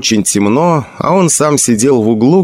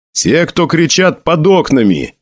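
roar; 7 semitones higher than usual. A narrator's reading. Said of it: "взревел Седжин".

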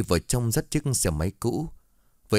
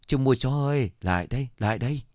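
put-on high, eager old woman's call; calling out loudly; 6 semitones higher than usual. Old woman calls the dog buyer over, high and eager. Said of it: "gọi lớn".

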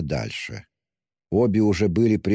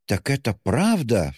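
high, drawn-out astonished question; slow, swooping cry of alarm; 7 semitones higher, slower than usual. A narrator's reading. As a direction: exclaim it in shocked disbelief. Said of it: "вскричала Пульхерия Александровна".

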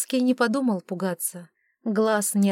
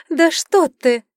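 laughing; 8 semitones higher, 9 dB louder, slower than usual. A narrator's reading. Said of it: "рассмеялась Рискин".

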